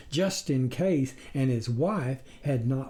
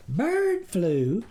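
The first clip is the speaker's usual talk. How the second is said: surprised question; 6 semitones higher than usual. A narrator's reading. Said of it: "the farmer's wife asked".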